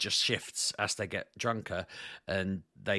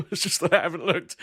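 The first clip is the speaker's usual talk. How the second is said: laughing; 8 semitones higher, 6 dB louder than usual. Real, not acted. Laughing at own token blunder.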